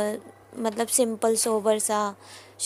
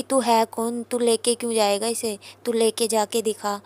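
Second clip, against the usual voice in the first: a louder retold shout, half in earnest; mock yell; 3 dB louder than usual. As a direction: snap it back at the brother. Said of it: "double triple आवाज़ में उससे और चिल्ला". (बड़े भैया की तरह हल्का ज़ोरदार डाँटना)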